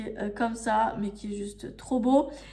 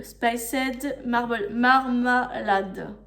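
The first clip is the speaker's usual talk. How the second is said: French-accented English; much slower than usual. Real, not acted. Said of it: "je m'excuse pour mon anglais pourri".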